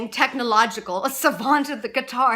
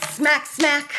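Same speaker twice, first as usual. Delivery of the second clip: two punched smacks; spoken sound effect, sharply struck; smacking sound; 3 semitones higher than usual. Acted. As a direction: hit each smack like a slap. Voices smacking sound in poem.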